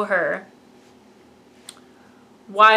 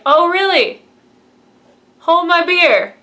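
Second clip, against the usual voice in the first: mock cocky, higher and louder; cheeky dare; 8 semitones higher, 7 dB louder than usual. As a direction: toss the challenge off smugly. R2 cheekily dares Luke.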